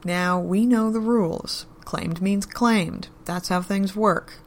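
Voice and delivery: slow, steady and deliberate; even, measured. Acted. Joe reminds the men of the rules, even and measured. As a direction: lay down the law calmly, taking your time. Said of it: "His voice was even, measured".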